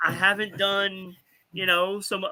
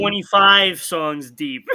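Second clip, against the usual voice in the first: laughing; 2 semitones higher, 5 dB louder, slower than usual. Real, not acted. Laughing at huge number.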